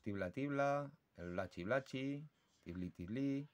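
soft chirped tibla syllables; birdsong imitation. Shown as a demonstration. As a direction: chirp them like a bird, softly. (imitación suave de canto de pájaro)

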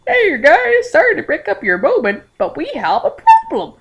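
high, loud attempt at a Spanish accent; hammy mock Spanish voice; bad Spanish accent. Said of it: "I can't do Spanish accents".

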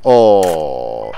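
loud, drawn-out oh sliding down low; long falling groan of "oh". Real, not acted. Reacts during play.

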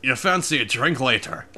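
light mock Irish accent; put-on Irish accent. Streamer repeating the drink invitation, light mock Irish accent. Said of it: "you're talking in an Irish accent".

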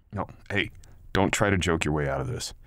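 loud, forceful scolding; angry shout. Acted. Partner shouting at girl to quit joking around. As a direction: shut down her joking hard.

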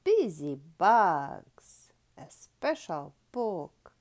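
loud, slow title announcement; big storytime title reveal; announcing the title. Acted. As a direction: call out the title grandly.

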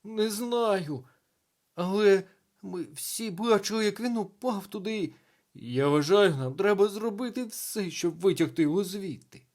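high, loud, worried insistence; agitated urging. A narrator's reading. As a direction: plead loudly for a rescue. Panicked teacher urges a rescue.

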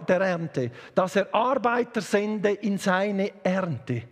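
slow, measured Bible reading; scripture reading. Acted. Preacher reads the harvest verse to the congregation, measured scripture reading. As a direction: read the verse solemnly, stretching the key words.

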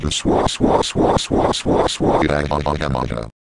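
heavy panting; gasping for air; out of breath. Real, not acted. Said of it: "I can't catch my breath".

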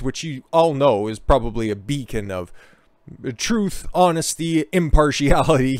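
mock praise, pitch jumping up; sarcastic. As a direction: oversell it with heavy sarcasm. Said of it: "can't even barely say it with a straight face".

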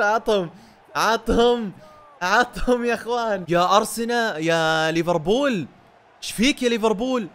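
loud, slow taunting at the rival club; gloating taunt. Real, not acted. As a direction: rub it in, drawn out and loud. Gloating after eighth goal.

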